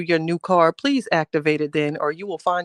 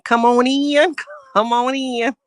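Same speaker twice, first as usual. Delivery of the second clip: high, laughing impression of a welcoming lady; 7 semitones higher, slower than usual. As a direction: call it out high, imitating her, breaking into laughter. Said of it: "I sound like that lady".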